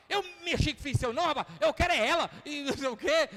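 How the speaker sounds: mais alto e agudo, depressa, se defendendo aos berros; gritaria apaixonada ao telefone. Retold or imitated. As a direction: despeja tudo sem deixar o outro falar. Vizinho grita ao telefone de novo. (vizinho gritando ao telefone que não largará a mulher, exaltado)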